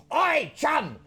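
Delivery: loud call to the back room. Acted. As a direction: holler for the servant across the inn.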